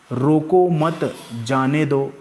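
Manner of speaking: slow, weight on "रोको मत", then "जाने दो"; spaced-out "रोको मत जाने दो" with deliberate stress; stress demo. Shown as a demonstration. Teacher showing students how stress works in a sentence, slow stress on "रोको मत". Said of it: "वाक्यों में भी हम बलाघात देते हैं".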